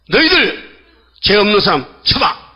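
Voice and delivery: imitated confronting call; retold challenge. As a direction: call them out, starting high.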